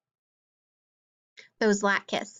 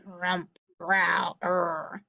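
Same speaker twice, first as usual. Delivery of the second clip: muddled growl; 2 semitones lower, much slower than usual. A narrator's reading. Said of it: "Old Bear muddled and growled".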